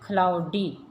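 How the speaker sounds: क्लाउडी broken as क्लाउ, डी; split into syllables. Shown as a demonstration. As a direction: say क्लाउडी in two separate beats. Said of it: "इनके syllable हिज्जे count".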